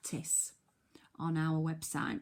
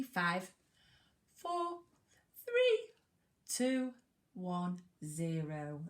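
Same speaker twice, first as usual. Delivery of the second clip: teacher's playful countdown; sing-song countdown; slower than usual. Shown as a demonstration. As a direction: bounce the countdown up then settle down. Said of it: "countdown for writing".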